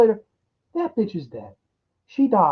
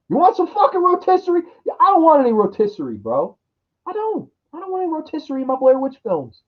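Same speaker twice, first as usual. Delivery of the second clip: fast, higher indignant refusal; exasperated rapid rant; 5 semitones higher, faster than usual. Real, not acted. Refusing the rotisserie witch, fast and indignant. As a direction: rattle it off indignantly. Mock argument over rotisserie.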